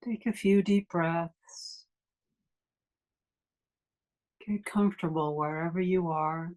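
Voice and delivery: unhurried meditation guide with long pauses; guided meditation. Acted. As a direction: ease listeners into stillness, leaving long silences between phrases.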